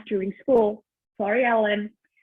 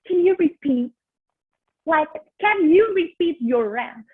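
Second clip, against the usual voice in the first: mocking the friend; 4 semitones higher, 3 dB louder than usual. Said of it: "she had the audacity to say to me".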